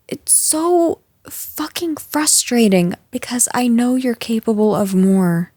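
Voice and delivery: exasperated, half-whispered venting; frustrated under breath. Acted. Boss vents frustration under breath.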